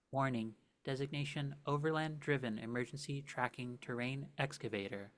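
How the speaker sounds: flat robotic warning readout; mechanical voice. Acted. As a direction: deliver it like a machine directive. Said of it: "the mechanical voice calls out".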